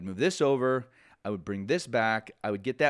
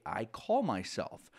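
literal gloss; 4 dB quieter, slower than usual. Shown as a demonstration. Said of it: "You actually say".

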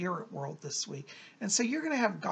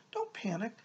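soft reassuring whisper; 4 dB quieter than usual. Real, not acted. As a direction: hush it, calming the listener. Reassuring the Taurus listeners.

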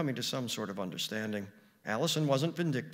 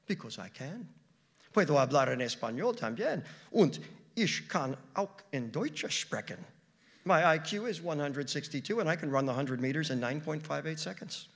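put-on girl boasting; 3 semitones higher, 4 dB louder than usual.

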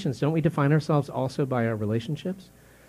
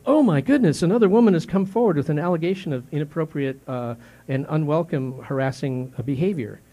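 mock news alarm; 3 dB louder than usual. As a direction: play a scandalised newsreader. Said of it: "the news treats it like a scandal".

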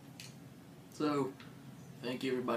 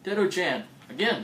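high, loud excited call-out; excited anime fan; 7 semitones higher, 10 dB louder than usual. Real, not acted. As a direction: cheer the name out. Excited greeting of repeat commenter.

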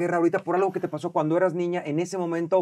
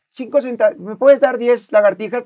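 overly polite request; 5 semitones higher, 7 dB louder than usual. Retold or imitated. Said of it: "No te dicen".

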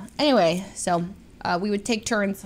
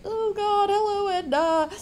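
reluctant greeting; 10 semitones higher, 3 dB quieter than usual. Retold or imitated. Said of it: "I'm like".

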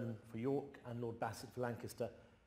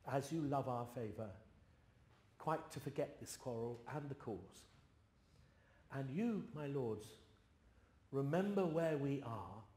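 measured, slightly raised royal address, unhurried; King Henry recited; 2 semitones higher than usual. Acted. Young king pleading with quarrelling lords, stately measured recitation. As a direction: speak as a young king calming feuding nobles. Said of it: "Henry the sixth attempts to patch it up".

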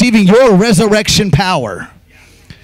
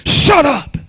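mock haters; 10 semitones higher than usual. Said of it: "They're like".

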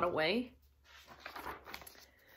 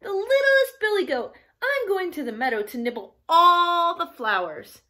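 put-on squealing baby goat; 6 semitones higher, 4 dB louder than usual. A narrator's reading. Baby goat tells troll his meadow plans, squealing. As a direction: pipe up like a tiny goat. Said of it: "Baby Gruff squealed".

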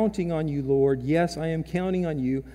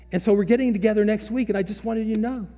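higher, fast, happy retelling; excited; 4 semitones higher, 4 dB louder, much faster than usual. Retold or imitated. Parishioner tells pastor of the reunion, mildly excited. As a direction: rush out the good news with a lift. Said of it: "She is excited, overjoyed".

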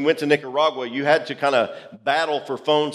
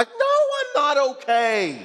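laughing admission; 11 semitones higher than usual. Retold or imitated.

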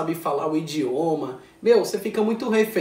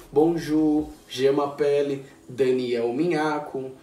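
learner's French; 3 semitones lower, slower than usual. Shown as a demonstration. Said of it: "começou a se apresentar".

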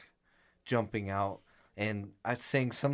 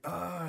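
higher, mild mock groan; retold pained groan; 6 semitones higher, 4 dB quieter than usual. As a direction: groan "oh" like a hurt friend. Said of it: "he's screaming in pain".

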